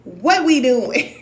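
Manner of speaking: slow, pointed demand to act; slow emphatic challenge. Real, not acted. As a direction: stretch it out, demanding an answer. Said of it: "for lack of better words".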